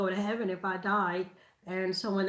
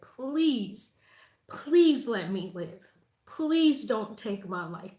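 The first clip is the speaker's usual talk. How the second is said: tearful pleading prayer. Retold or imitated. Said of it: "And I was crying".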